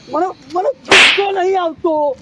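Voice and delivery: loud, irate insistence he isn't angry; angry denial. Acted. Grandpa yelling at the prank caller that he's not angry. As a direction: yell that you're not angry, clearly furious.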